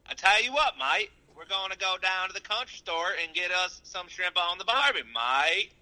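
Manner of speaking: high mock Aussie-Southern accent; badly faked Australian hick twang; Australian redneck. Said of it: "Can you do an Australian redneck?".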